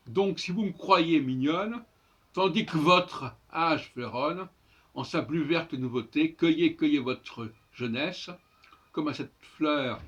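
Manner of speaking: verse with "me" and "que" cut to m and k; new elided reading. Shown as a demonstration. Teacher rereads the stanza corrected, "me croyez" as m'croyez, "que votre" as k'votre. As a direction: drop the e in "vous me croyez" and "tandis que votre". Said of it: "doivent être relus comme ça".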